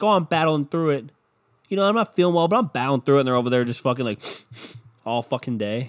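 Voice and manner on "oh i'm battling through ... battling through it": sick coworker. Retold or imitated. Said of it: "People are like".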